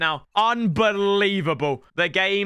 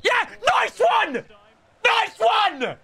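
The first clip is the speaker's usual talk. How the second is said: sarcastic congratulations; sarcastic shout; 14 semitones higher, much slower than usual. Real, not acted. Sarcastic shout at opponent's goal.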